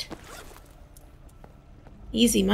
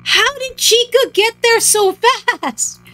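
high, loud cry of disbelief; shocked yell; 9 semitones higher, 3 dB louder than usual. Real, not acted. Player caught by Chica in the game, shocked.

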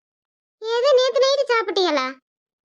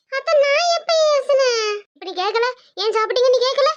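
daughter-in-law denying she scolded mother-in-law; protesting daughter-in-law; 5 semitones higher than usual. Acted. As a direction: insist you never scolded her.

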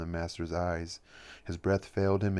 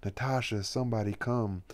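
higher, helpless call for help; a collapsing woman calling out weakly; cry helplessly; 3 semitones higher than usual. Acted. The stricken woman calling her maid for help, higher and helpless. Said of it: "and cry helplessly".

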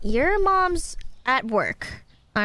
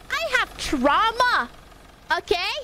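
dramatic whine; 7 semitones higher than usual. Real, not acted. Mock complaining to chat.

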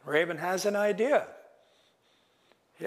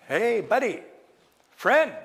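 high, loud chummy hail; butter up a wary wolf; over-friendly trickster greeting; wheedling Raven; 6 semitones higher, 4 dB louder than usual. Acted.

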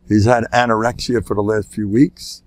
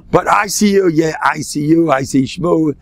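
raised, scoffing repetition; mock dismissive; 5 semitones higher than usual. Rabbi brushing off the father's alarm, mock dismissive. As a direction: scoff at the very letters.

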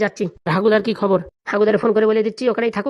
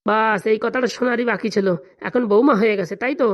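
bitter reproach. Acted. Hurt at being treated as outsiders.

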